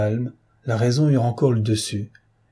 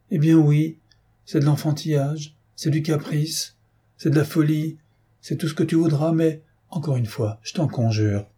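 higher-pitched, insistent entreaty; insistent pleading; 4 semitones higher than usual. Acted. Wife begging her husband to stay, pleading. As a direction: plead through each item, pitch held up.

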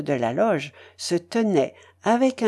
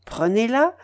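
animated lady, pitched up on most phrases; exuberant Madame Polosov; 4 semitones higher than usual. Acted. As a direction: seal the bargain with emphatic delight. Voices elated Madame Polosov sealing deal. (dame triomphante, vive et emphatique)

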